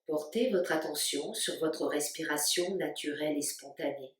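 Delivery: calm, spacious delivery with long pauses between phrases; guided meditation. Real, not acted. Yoga teacher guiding listeners to stay awake while the body sleeps, guided meditation. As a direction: lead them unhurriedly into rest, phrase by phrase. Leads a yoga nidra relaxation.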